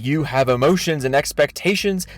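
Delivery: mock-sincere, pompous reading of an apology; dramatic reading. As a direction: read it like a condescending sermon. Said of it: "This is a dramatic reading of his thread".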